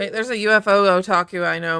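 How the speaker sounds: normal talking voice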